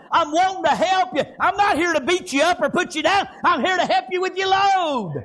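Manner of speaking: driving revival sermon cadence; rolling country-church preacher delivery; fervent preaching. Real, not acted. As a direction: preach it with conviction, stretching the final words. Preaches on Matthew eleven.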